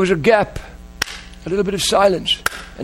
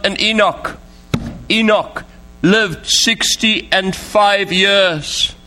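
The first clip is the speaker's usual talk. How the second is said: slow, measured Bible reading; solemn pulpit reading with spaced-out phrases; scripture reading; slower than usual. Real, not acted. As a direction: read the verse out slowly and deliberately. Reads scripture to congregation.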